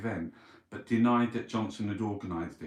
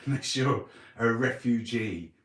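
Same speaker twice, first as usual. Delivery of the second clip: laughing; 3 dB louder than usual. Real, not acted. Mocking the PM's message.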